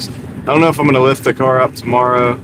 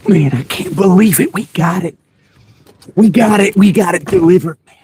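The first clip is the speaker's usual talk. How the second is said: higher, louder thrilled exclaims; excited; 7 semitones higher, 3 dB louder than usual. Real, not acted. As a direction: celebrate the win out loud. Excited after the sneaky drop-off.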